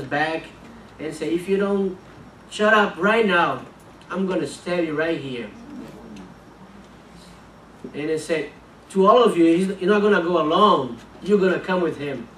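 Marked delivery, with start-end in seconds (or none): 1.3-5.5 a hint of a gunman's menace; menacing retold threat. Gunman threatening father with knife. 8.9-12.3 raised menacing threat. Retold or imitated. Gunman threatens everyone.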